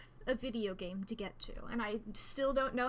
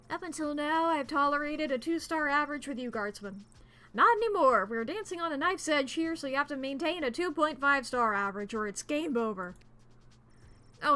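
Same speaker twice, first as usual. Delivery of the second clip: stern commander. Acted. Voices commander scolding.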